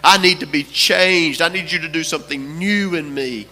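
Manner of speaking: retold crying out. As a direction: cry out to God as you retell it. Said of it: "I cried out to God".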